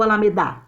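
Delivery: "Alameda" with the final DA hit hard; stress on last syllable. Shown as a demonstration. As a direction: test "Alameda" as alame-DA, wrongly end-stressed. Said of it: "Quem é a sílaba tônica mais forte?".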